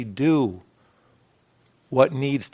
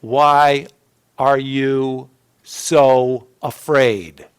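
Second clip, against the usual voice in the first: slow, louder question from Jesus; Jesus asking; 5 dB louder, much slower than usual. Retold or imitated. Jesus asking his frightened disciples, slow and searching. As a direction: draw out "Why are you so afraid?" slowly. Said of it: "he turns and he explains it to his disciples and he says".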